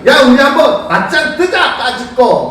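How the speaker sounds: high-pitched mock dare; bold challenge. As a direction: play a cocky challenger picking a fight. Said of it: "확실하게 이야기하지". (자신 있게 맞짱 신청하는 말투 흉내)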